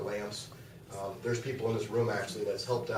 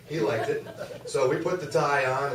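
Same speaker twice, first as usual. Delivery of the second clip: laughing; 5 semitones higher, 6 dB louder than usual. Real, not acted. Laughing about the pink tie.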